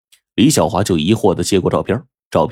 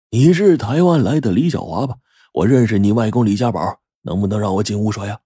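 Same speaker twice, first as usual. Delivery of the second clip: put-on old visitor; 2 semitones higher than usual. Old man's dialogue in story.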